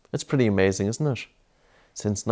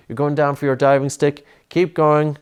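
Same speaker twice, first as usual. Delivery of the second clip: raised-pitch, insistent encouragement; urging on; 4 semitones higher, 4 dB louder than usual. Real, not acted. Urging child through breath hold.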